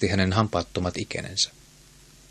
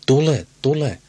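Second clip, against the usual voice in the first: put-on higher, louder cackling old hag; cackling crone; 5 semitones higher, 4 dB louder than usual. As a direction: screech the summons like a witch. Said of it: "vanha nainen kaakatti". (kaakattava noitamainen huuto)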